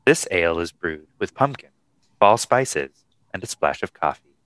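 creepy serial killer voiceover; slasher killer. Acted. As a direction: read the label like a slasher killer. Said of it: "You sound like a fucking serial killer".

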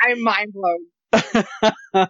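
laughing through the words; slow, amused disbelief. Real, not acted. Mocking the obvious reveal.

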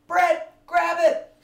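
high, loud, drawn-out yell; acted panicked mother's scream; voicing the frantic mom. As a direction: shout it desperately down to someone. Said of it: "She's saying".

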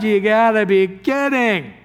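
amused incredulous Sarah; laughing disbelief. Retold or imitated. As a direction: laugh it off as absurd. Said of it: "She just laughs out loud".

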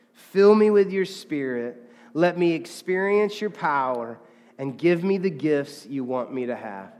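loud call on God, then measured phrases; deliberate prayer for all to join; leading group prayer. Real, not acted. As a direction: lead a congregation line by line, unhurried. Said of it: "Let's say that together".

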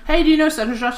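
lightly voiced gossiping mother; imitated mother. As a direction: mimic your mother starting some news. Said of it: "my mother and she'll be like".

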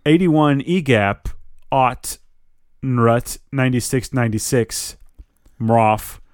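slow, word-by-word backwards speech. Acted. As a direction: spell out reversed words very slowly. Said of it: "she says each word very slowly".

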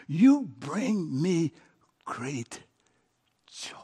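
slow, softening to a hush; tender, slow. Acted. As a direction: say it like a gift. Voicing the Father's words.

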